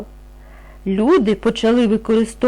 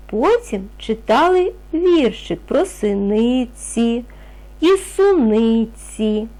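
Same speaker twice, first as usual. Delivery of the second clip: clear, measured storybook reading; steady classroom read-aloud of the primer text; reading to children; 3 semitones higher than usual. Acted. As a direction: read it out so little ones can follow along. Teacher reads text aloud to class.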